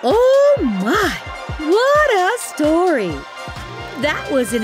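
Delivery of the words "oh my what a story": high, amazed exclamation; thrilled storyteller. Acted. Narrator after the pigs' win, thrilled amazement. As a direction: marvel with big swooping pitch.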